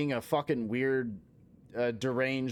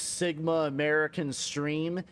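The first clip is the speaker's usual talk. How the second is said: mock outraged rant; 3 semitones higher than usual. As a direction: lay into them with pretend indignation, dragging the insults out. Mock tirade at a British player.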